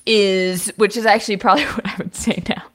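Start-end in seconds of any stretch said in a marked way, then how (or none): 0.1-0.7 slow, mock-profound speech voice; a mock graduation speaker, slow and self-important; trying to be cool. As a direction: hand out wisdom like a cool grad. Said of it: "trying to be cool".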